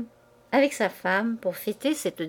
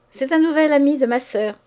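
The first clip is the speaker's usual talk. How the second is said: malice; 6 semitones higher, 5 dB louder than usual. A narrator's reading. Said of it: "répondit avec malice".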